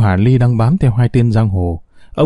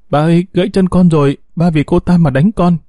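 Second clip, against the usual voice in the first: higher wailing plea; crying out in pain; 6 semitones higher than usual. Acted. Daughter crying out to her father, higher wailing. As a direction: wail it high, as if the leg is broken. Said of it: "đau khóc rú lên".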